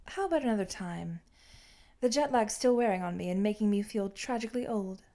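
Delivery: dismissing his partner's job offer with flat finality; utter apathy. Acted. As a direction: shut the subject down with total indifference. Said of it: "a tone that brooks no argument insofar as it perfects utter apathy".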